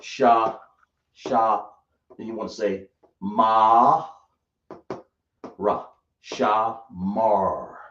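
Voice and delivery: sha, ma, ra said one at a time, then put together as Shamar; building the word. Shown as a demonstration. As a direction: assemble Shamar syllable by syllable. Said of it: "So we have sha".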